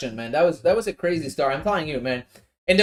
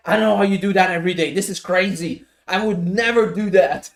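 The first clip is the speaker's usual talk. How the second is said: a mildly stressed, fast retold rant; stressed rushing; 6 dB louder than usual. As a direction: rattle it off like a mildly stressed wife. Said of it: "She, she was so stressed".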